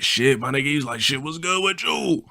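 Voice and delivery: friend's voice. Retold or imitated. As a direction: greet him lazily in a high voice. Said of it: "Yeah, that's how he talked".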